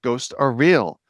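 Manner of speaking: intrigued, slowly catching on; curious realization. Retold or imitated. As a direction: replay the unafraid discovery, drawn out. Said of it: "just more of a curiosity".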